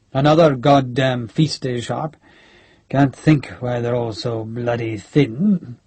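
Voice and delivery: lightly voiced grumbling general; a hint of a crusty officer, slowing as he grumbles; Major General Nairn.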